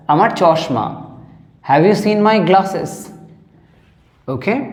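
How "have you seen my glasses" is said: very slow, each word set apart; slow teaching read. Shown as a demonstration. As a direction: say it slowly for the class.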